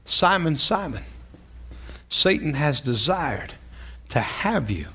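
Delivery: a lightly voiced Jesus, hushed and slow; gentle Jesus voice. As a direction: speak it like Jesus grieving over a friend. Pastor voicing Jesus warning Peter.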